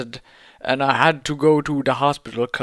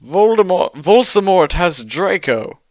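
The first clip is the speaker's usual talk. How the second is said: higher, louder alarmed shout; 5 semitones higher, 5 dB louder than usual. A narrator's reading. Teens shouting to Dumbledore that Draco is taken, loud. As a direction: blurt the news in alarm. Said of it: "we shouted".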